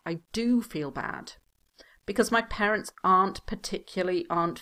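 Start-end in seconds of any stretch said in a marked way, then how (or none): 0.1-1.3 light stress on "do"; emphatic do. Shown as a demonstration. Teacher repeating the emphatic example, stressing "do". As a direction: lean a little on "do". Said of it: "do when we really want to emphasize something".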